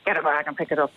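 flat, curt command; blunt order. Shown as a demonstration. Woman shows the rude version she didn't use, blunt. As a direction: bark it as a plain demand. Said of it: "I didn't say".

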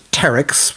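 "pteryx" with the P left silent. Shown as a demonstration. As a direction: say "pteryx" starting on the T sound. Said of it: "The P is actually silent".

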